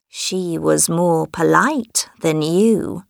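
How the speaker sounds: slow, stern elder; stern old man. Acted. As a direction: rebuke her slowly and firmly. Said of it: "said January".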